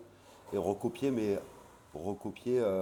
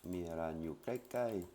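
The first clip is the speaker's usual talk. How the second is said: "Mira nyu kai kai" said slowly and carefully; slow Thai demo; slower than usual. Shown as a demonstration. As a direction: model "Mira nyu kai kai" at learner speed. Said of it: "il y a un magasin qui est tout près".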